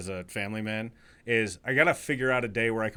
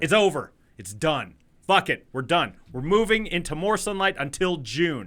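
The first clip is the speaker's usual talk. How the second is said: excited; 4 semitones higher, 4 dB louder than usual. Real, not acted. Celebrating end of dark weeks.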